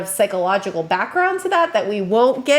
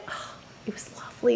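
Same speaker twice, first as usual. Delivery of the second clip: whisper; 12 dB quieter, faster than usual. Shown as a demonstration. Praising the child's polite request.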